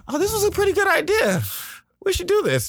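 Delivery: high teasing impression of the partner who now loves the idea; mocking high voice. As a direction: parody him brightly agreeing as if it were his idea. Mocking partner's next-day reversal.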